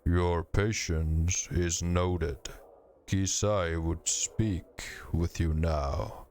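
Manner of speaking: slow, ponderous stone voice; boulders grinding voice. Acted. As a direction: speak like grinding rock, slowly. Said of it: "with a voice like two boulders grinding together".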